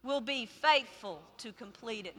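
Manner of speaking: loud start, calling the words out; call-and-response verse; congregational recitation. Acted. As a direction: lead the crowd in saying it. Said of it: "say it with me".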